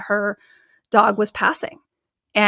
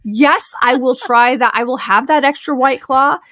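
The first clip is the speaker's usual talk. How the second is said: higher, louder, eager yes to everything; giddy twenty-year-old; 3 semitones higher, 5 dB louder than usual. Retold or imitated. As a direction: act out carefree, kid-free excitement. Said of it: "twenty years old again".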